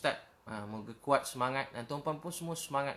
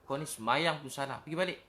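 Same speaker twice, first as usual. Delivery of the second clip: mock scolding; 3 dB louder than usual. Preacher shows how not to correct a worshipper, mock scolding. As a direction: send them off with an exasperated telling-off. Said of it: "Takkan kita kata".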